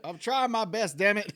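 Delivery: dad's voice. Retold or imitated. Dad voiced in story.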